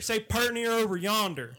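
prompting phrase in Southern twang; Southern accent demo. Shown as a demonstration. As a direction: show the Southern way of saying it. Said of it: "Here's my Southern accent now".

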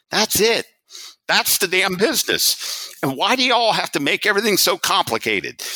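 high-pitched Southern executive impression, climbing at the end; Southern accent. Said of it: "in his Southern accent".

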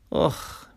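short breathy groan of exhaustion; unpitched "ugh" of effort; weary groan. Acted. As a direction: groan like you're hauling tired kids. Exhausted, carrying children.

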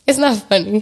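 laughing through the words. Real, not acted. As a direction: try not to laugh. Laughing while telling.

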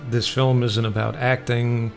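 ordinary talk, nothing marked

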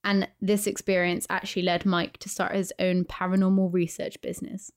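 measured read-aloud storytelling; steady, understated spooky narration with pauses; ghost story narration. A narrator's reading. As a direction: read a listener's eerie tale, evenly paced. Reads listener's ghost story.

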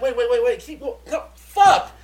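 urgent pleading wait, then a high yelled no fuck; frantic to frustrated. Retold or imitated. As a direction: beg it to keep going, then explode when it cuts. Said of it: "I'd be like".

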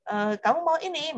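playful imitation of a parent asking; parent offering. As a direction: sing it out like a parent offering cake. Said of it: "Dipanggil orang tuanya".

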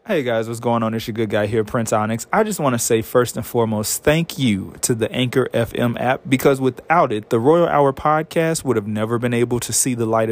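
loud, upbeat sponsor ad; ad read. Acted. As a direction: sell the free app with energy. Reads the sponsor ad.

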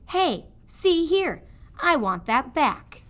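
a rough prisoner crying out for his cloth; robbed prisoner objecting; protesting prisoner. Acted. Prisoner protests rat's theft.

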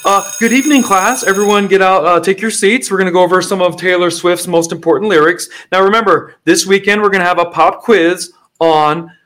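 lightly hammed-up lecturer; professor voice. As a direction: address the class like a teacher. Plays a professor lecturing on a pop singer's lyrics.

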